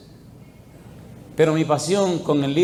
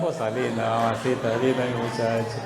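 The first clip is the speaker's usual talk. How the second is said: low, soft endearments; playful retold comforting; tender cooing; 4 semitones lower, 5 dB quieter than usual. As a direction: soothe the clinging man quietly, voice dropped. Cooing to the man clinging to him.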